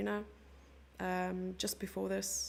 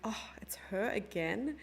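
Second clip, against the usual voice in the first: mock weary dismay. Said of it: "Why would someone say again".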